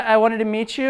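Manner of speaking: upspeak, pitch rising on "you" in "meet you". Demonstrating extreme trying-for-rapport tonality: rise on meet you like a question. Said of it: "Like where every single thing is a question".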